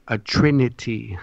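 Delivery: "trinity" repeated by itself, carefully enunciated; deliberate repeat. Real, not acted. Speaker repeats a key term for listeners, carefully enunciated "trinity". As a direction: say "trinity" apart, syllable by syllable. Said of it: "Sorry if I said that too fast".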